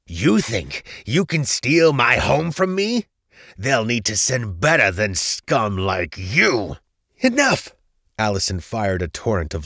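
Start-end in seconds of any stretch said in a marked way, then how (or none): 0.0-6.8 slow, raised, venomous villain rage; furious cry. A narrator's reading. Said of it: "he cried furiously". 7.2-7.8 very high, loud outburst; commanding cry. A narrator's reading. Heroine cuts off the furious villain.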